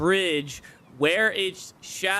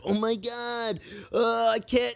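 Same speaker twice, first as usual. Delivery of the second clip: higher, fast flustered voice; mock panicked player; 6 semitones higher than usual. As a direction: act confused and panicky. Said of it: "you're like".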